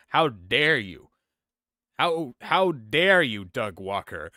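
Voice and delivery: slow, loud, building outrage; outraged. Pretend. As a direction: drag out each word in mock fury. Mock outrage at critic.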